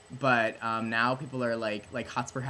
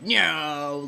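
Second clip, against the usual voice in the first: rebel shout; 5 semitones higher, 10 dB louder than usual. Retold or imitated.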